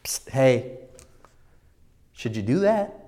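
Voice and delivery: soft "psst" from an inner voice; gently prod, hushed, lifting on the question; quiet conscience voice; little nudge. Retold or imitated. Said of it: "He gives me that little".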